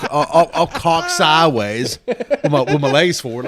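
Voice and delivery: words broken up by laughs; laughing through the seat story; laughing while talking. Real, not acted.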